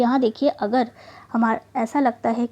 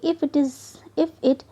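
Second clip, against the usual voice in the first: slow rule reading; much slower than usual. Shown as a demonstration. Teacher reading a spelling rule to the class, very slowly. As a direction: read the rule very slowly and deliberately. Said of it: "reading rule slowly".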